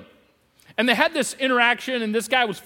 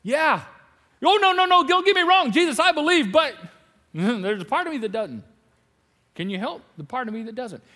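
flustered father; 3 semitones higher than usual. Retold or imitated. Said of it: "The dad was like".

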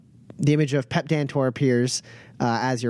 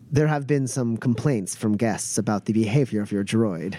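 lower-pitched, lightly voiced servant; apologetic servant; 4 semitones lower than usual. Servant reports guests' complaints about the droid, low and apologetic. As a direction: discreetly pass on a complaint, voice dropped. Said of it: "Tosh comes over and is like".

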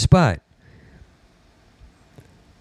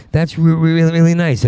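higher, polite mock gushing; forced politeness; 6 semitones higher than usual. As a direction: fake a sweet thank-you. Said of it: "and I said".

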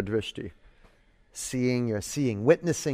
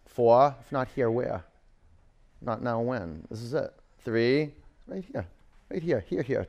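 calm grounding exercise; 3 dB quieter than usual. Acted. Teacher's quiet calming cues.

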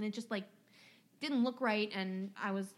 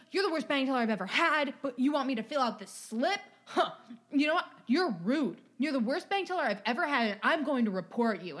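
louder, fast indignant customer rant; mock angry rant; 4 semitones higher, 5 dB louder than usual. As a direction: rattle off the grievance like an entitled customer. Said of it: "he goes".

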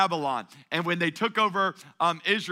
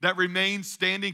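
higher, disbelieving questioning; incredulous king; 3 semitones higher than usual. Retold or imitated. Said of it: "Nebuchadnezzar was taking it personal".

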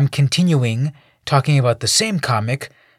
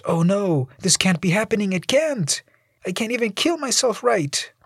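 high, whiny self-pity; mild despair at failing; lightly voiced despairing man; 10 semitones higher than usual.

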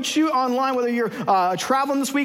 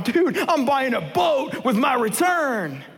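boastful friend; slower than usual. Acted. Friend brags about boat.

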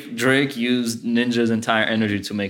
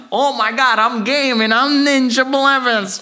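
high, excited gamer yelp; voiced cartoon Ninja; 10 semitones higher, 5 dB louder than usual. Imagining Ninja's movie cameo, high excited gamer voice. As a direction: burst in as a hyped gamer, high-pitched. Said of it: "and it's like".

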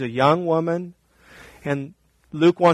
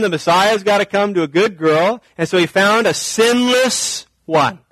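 mock smug reading; 5 semitones higher than usual. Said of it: "we don't wanna read this and say".

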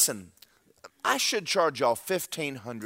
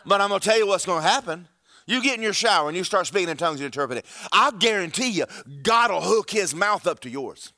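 fervent preaching; 4 semitones higher, 3 dB louder than usual. Acted. Preaches excitedly to congregation.

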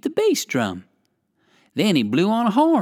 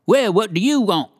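monkey calling; 5 semitones higher, 4 dB louder than usual. A narrator's reading. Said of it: "he called most politely".

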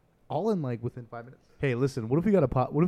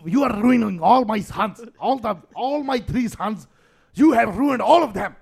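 slow, higher mock accusation; dad blaming mom; 8 semitones higher, 7 dB louder, slower than usual. Father accusing the mother of ruining their sons, in a slow mock rant. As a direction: lay the blame on the mother, slow and rising.

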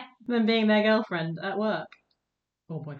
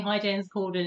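put-on Irish accent. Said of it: "in an Irish accent".

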